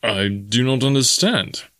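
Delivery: slow, mildly puzzled; puzzled Clayton. Acted. Clayton to Jane, slowly puzzled. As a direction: take it slowly, confused. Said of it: "said Clayton".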